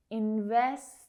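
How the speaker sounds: "Investment" broken in two, both T's stopped unreleased; soft T sounds. Shown as a demonstration. Teacher showing learners the stop T's, "Investment" with very soft T's. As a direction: let the T's in "Investment" stop without a puff. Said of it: "those T sounds are very soft".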